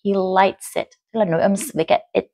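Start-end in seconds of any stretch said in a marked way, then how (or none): 0.0-0.9 "lights it" run together as one word; "lights it" joined with no gap; linked sounds. Shown as a demonstration. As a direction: link the s of "lights" onto "it". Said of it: "là Moon đã nối âm rồi".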